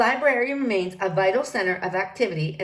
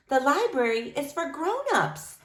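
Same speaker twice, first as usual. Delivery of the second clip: put-on children's voices; 5 semitones higher than usual. Children reply.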